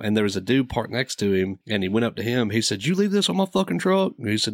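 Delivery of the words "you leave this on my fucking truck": high-pitched indignant question; pitched-up, incredulous challenge without shouting; mock accusation. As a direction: imitate a buddy confronting a suspect. Buddy accusing a stranger, retold.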